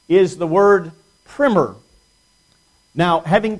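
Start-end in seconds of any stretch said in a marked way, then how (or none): 1.3-1.8 "primer" said with a short i, rhyming with swimmer; short-i pronunciation. Shown as a demonstration. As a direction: say "primer" as PRIMM-er. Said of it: "And the other pronunciation".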